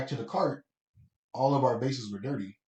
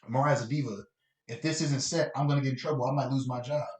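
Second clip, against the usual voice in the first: mild, reasonable request at normal pitch; nicer tone. Shown as a demonstration. Assistant explaining she might lose her job, nicer tone. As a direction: model how to ask it kindly. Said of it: "in a nicer tone".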